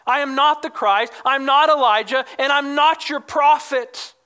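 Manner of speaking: firm stress on each "not"; emphatic denials. Retold or imitated. Prophet answering his questioners, three emphatic no's with "not" stressed. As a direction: deny it three times, leaning on "not". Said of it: "three emphatic no's".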